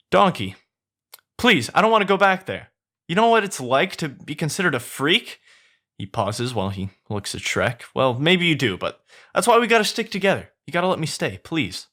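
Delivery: high pleading Donkey voice; begging. Acted. Donkey pleads with Shrek to let him stay. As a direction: beg him, high and desperate. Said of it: "Donkey begs".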